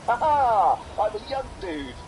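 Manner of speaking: high, loud triumphant cackle and cry; gleeful Willy Wonka. Retold or imitated. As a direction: crow it like a spry old man. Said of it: "Willy Wonka fall he's like".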